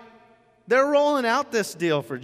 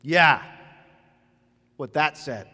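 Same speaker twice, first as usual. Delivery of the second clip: offhand shrug; 3 semitones lower, 5 dB louder, slower than usual. Pretend. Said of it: "and I go".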